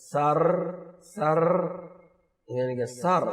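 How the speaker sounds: سر with a touched r; Urdu-style sir. Shown as a demonstration. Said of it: "ہم ایسے بولتے ہیں". (سر کو اردو انداز میں بولیں)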